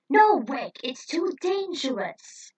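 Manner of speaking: shouting after Rick running to the fight; urgent warning shout. Acted. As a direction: yell to stop him.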